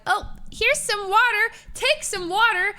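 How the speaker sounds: high-pitched helper voice; imitated coddling. Helper to a sick girl in the bathroom, high coddling. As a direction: offer help in a high, fussing voice.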